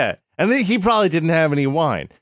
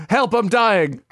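thick, swollen-tongue mumble; slurring around a big tongue; groggy from anesthesia; 9 semitones higher, slower than usual. Acted. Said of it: "Your tongue is so big".

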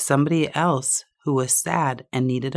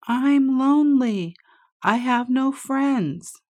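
hollered back; 10 semitones higher than usual. A narrator's reading. Duck hollering back across the water. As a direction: call it back from afar. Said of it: "And then he heard".

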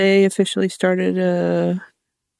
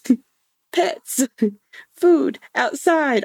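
higher, bouncy dog voice; eager dog; 7 semitones higher, much slower than usual. Retold or imitated. The dog asking for everything on its buttons, eagerly. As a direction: list like an excited dog. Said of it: "the dog's like".

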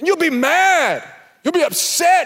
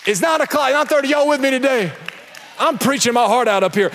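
shouting to the crowd; faster than usual. Real, not acted. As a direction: rouse the congregation. Preacher calls out crowd.

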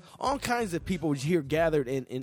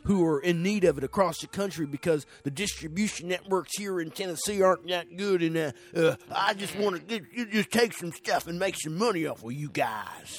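put-on Texas accent. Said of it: "I think I'm doing more of a Texas accent".

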